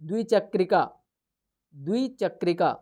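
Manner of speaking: द्विचक्रिका said syllable by syllable with a falling close; clear pronunciation. Shown as a demonstration. Teacher naming the cycle in Sanskrit, clearly. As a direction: spell out द्विचक्रिका in sound, then repeat it. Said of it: "cycle को क्या कहते हैं संस्कृत में".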